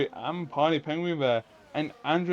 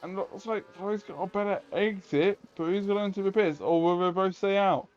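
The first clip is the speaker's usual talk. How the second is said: motorsport commentator; 4 semitones higher than usual. Acted. Live play-by-play of overtake.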